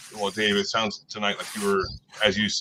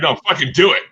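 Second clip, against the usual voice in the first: mock shout; 6 semitones higher, 10 dB louder, faster than usual. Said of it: "They're like".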